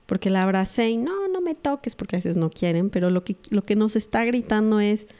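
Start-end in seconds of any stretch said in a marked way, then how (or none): 1.0-1.9 high, pushing-away protest; pitched-up imitation of a girl refusing a hug; upset daughter. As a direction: snap it off like a hurt teen.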